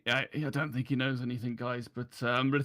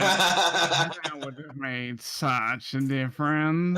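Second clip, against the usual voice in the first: sarcastic; 4 semitones higher, 6 dB louder, much slower than usual. Acted. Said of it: "I wanna see if he's being sarcastic".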